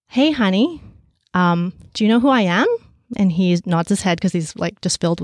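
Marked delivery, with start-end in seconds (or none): 0.1-2.7 gentle mother. Retold or imitated. Mother gently asks son.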